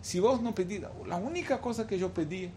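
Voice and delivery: imitating a weeping plea, mostly restrained; tearful lament. Father mourning his lost son before God, mock-tearful lament. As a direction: plead with God in grief, lightly acted. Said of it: "Empezó a llorar diciendo".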